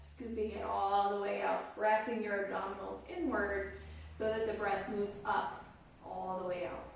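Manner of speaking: calm, unhurried guiding voice with long pauses; guided meditation. Real, not acted. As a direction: guide listeners gently into their breath, phrase by phrase.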